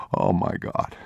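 soft unvoiced breath of wonder; hushed awe. A narrator's reading. Father in awe at the bunker, hushed. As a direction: half-whisper in disbelief.

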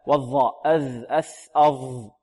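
dhal, tha, zha each sounded distinctly with the tongue at the teeth; articulated consonants. Shown as a demonstration. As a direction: sound out "أذ، أث، أظ" clearly, one by one. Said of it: "ولابد من إيضاحها". (نطق واضح لمخارج "أذ، أث، أظ")

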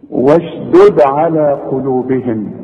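slow recitation, last d of واشدد bounced; qalqalah on second د. Shown as a demonstration. Teacher reciting a two-dal example, bounced واشدد. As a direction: release the final د of واشدد with an echo. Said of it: "الدال الثانية ساكنة".

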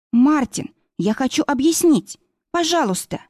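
high pleading voice, breaking at the end; desperate plea. A narrator's reading. Yana pleads with leaving Martin: high plea. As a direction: beg him to stay and listen.

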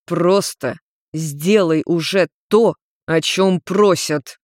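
slow, each word set apart; measured, deliberate. Acted. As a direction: spell it out slowly, barely patient. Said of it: "с расстановкой проговорил седоволосый".

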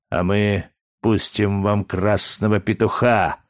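ordinary delivery

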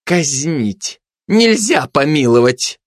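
high, drawn-out cry for punishment; shrieked-out sentence; shouted demand. Acted. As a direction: shout it as a slow, high verdict. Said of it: "выкрикнула обжора".

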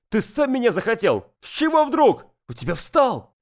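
put-on high, outraged young woman; indignant princess. Princess voiced in quarrel.

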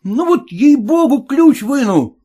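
high, loud threatening yell; yelling cab driver. Acted. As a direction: bark it at the passenger. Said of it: "заорал извозчик".

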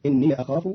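"إني" said inniya before "أخاف"; ya with fatha. Shown as a demonstration. Teacher names Qalun's reading, "إني" as inniya. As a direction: end "إني" on a short ya. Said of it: "بفتح الياء عند قالون".

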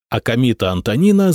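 ordinary delivery

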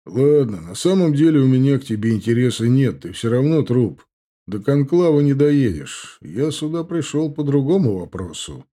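sly, mocking orc; smug orc voice. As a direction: play the cocky young orc. Indgar dismissive.

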